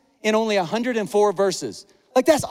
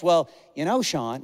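Ryan, nicely; 5 semitones lower than usual. Retold or imitated. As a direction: gently break it to him, dropping low. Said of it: "only Ryan can do real nicely".

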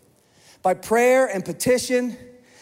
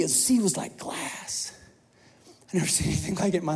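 hushed awe; 6 dB quieter than usual. Pretend. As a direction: hush it like the sea gone still. Awe at a calm sea.

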